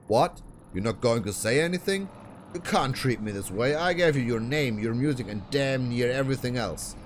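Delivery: a hint of a harsh manager nagging his idol; lightly voiced manager. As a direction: scold her like a pushy talent manager. Manager lecturing Ruby.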